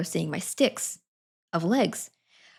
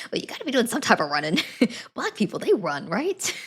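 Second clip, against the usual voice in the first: mock old man's thoughts; 4 semitones higher than usual. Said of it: "me imagining what he's thinking".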